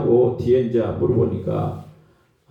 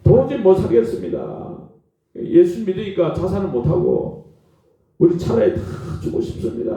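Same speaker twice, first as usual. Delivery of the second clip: acted-out despairing plea, fading into breathiness; mock tearful prayer; 3 semitones higher than usual. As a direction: imitate someone weeping to God, mildly. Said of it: "힘들다고 막 울고". (울며 하소연하는 기도 흉내)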